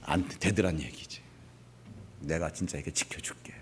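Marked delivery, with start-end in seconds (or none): 2.2-3.5 hushed, voiceless promise of protection; whispered promise. Acted. God promising Moses protection, whispered. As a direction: breathe it like a secret vow.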